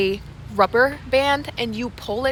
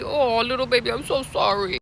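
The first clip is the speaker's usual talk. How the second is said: put-on fussing over a baby. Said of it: "starting to fuss over the baby".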